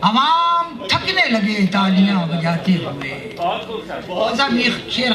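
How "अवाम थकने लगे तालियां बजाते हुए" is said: measured Urdu verse delivery, pitched above plain talk; mushaira poetry recitation. Acted. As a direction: declaim each couplet slowly, drawing out the phrases.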